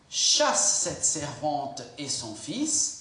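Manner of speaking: a stern wife demanding he send them away; harsh reading. Shown as a demonstration. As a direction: bark the order at Abraham, unhurried. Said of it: "pardonne-moi mon intonation de voix".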